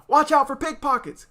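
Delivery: high, loud warning; father warning the kids as they go; cautioning. Acted. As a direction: call out the caution. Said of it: "cautioned their father".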